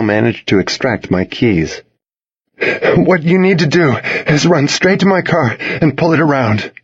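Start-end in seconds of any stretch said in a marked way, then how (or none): 3.0-6.7 calm. A narrator's reading. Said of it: "surprised at how calm I sounded".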